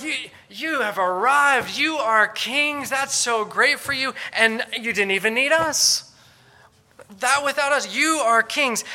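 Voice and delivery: high, loud, slow mock congratulation; sarcastic. Paul mocking the Corinthians who think they are kings, sarcastic. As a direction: overdo the praise, to mock them. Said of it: "sarcasm is the lowest form".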